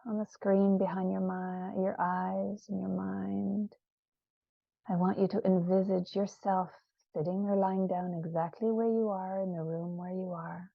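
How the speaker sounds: unhurried, soothing guided visualisation; guided meditation. Acted. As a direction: lead listeners gently inward, leaving space after each phrase. Leads a guided visioning meditation.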